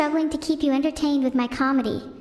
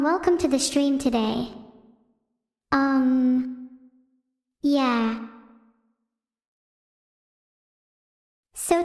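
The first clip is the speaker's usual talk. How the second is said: lightly voiced hesitant streamer, full of ums; mock a shy streamer stumbling through the intro; Vedal impression; slower than usual. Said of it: "I do a mean impression of Vedal".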